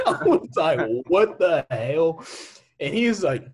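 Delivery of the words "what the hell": loud, drawn-out mock disbelief; slow, loud storytelling reaction; retold shock. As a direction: stretch it out, aghast. Retelling his shocked reaction to stranger.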